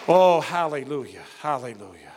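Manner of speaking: exclamation. Real, not acted. Preacher's exclamation after climax.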